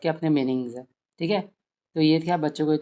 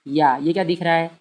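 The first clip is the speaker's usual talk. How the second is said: lightly voiced teacher coaxing a child, louder; 4 dB louder than usual. Mother coaxes a child to name letters, encouraging. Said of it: "बोले".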